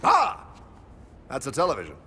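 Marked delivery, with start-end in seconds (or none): 0.0-0.5 high startled ah; startled gasp. Acted. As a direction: gasp in alarm. Hero startled by the invention.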